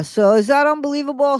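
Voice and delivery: can you believe it, said high and incredulous; indignant disbelief. Real, not acted. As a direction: pitch jumps up high in outraged amazement. Complaining about postage costs.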